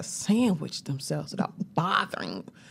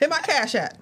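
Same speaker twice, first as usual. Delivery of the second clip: said through laughter, a bit louder; laughing joke; 7 semitones higher, 4 dB louder than usual. Real, not acted. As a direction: tease while laughing.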